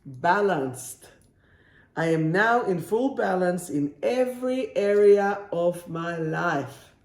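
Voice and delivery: lightly put-on French accent. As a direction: read the affirmation with a French lilt. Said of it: "I have to do it in a French accent".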